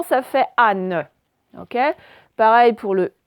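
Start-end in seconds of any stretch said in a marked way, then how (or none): 0.6-1.0 anne said slowly with a clear final n; sounded-out anne. Shown as a demonstration. Teacher modelling anne for the class, drawn out. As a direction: stretch out anne so the n is heard. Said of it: "ça fait pas an".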